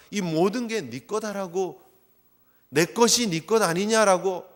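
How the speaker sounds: slow, gentle assurance; a father patiently offering everything, slow; tender father. Retold or imitated. Father reassuring his elder son, slow and gentle. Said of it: "아버지는 그렇게 말씀을 하고".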